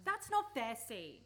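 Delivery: stung and loud, insisting it's unfair; indignant protest. Acted. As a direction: push back hard on the accusation.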